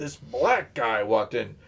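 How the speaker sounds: mock snarling tone. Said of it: "a snarl to it".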